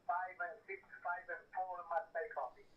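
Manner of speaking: ordinary talk, nothing marked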